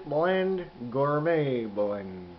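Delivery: talking around pipe stem; clenched teeth speech; pipe in mouth. Real, not acted. Seen 0: Pipe stem clamped in teeth throughout, held while showing the pouch.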